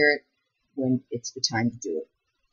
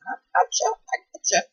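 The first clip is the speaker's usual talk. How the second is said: whisper; 6 semitones higher than usual. Real, not acted. Whispered aside to viewers.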